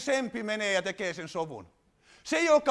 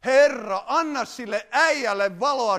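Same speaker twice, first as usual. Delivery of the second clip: mock wife's prayer; 4 semitones higher, 5 dB louder than usual. Preacher voicing a wife praying about her husband, mock loud plea. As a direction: pray out loud as the annoyed wife, half joking. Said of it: "vaan rukoilen".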